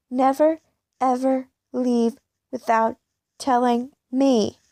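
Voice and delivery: a touch of a shout, slowed on the end; lightly voiced angry bully; a mild shouted threat from Sarah. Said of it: "she shouts".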